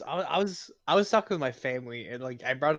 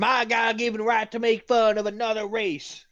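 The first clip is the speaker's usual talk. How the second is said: higher, grand mock declaration; mock proclamation; 8 semitones higher, 4 dB louder than usual. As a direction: proclaim it like a pompous decree. Overdramatic declaration.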